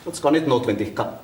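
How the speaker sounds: mocking echo. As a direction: echo the denial back under your voice. Echoes her denial back at her.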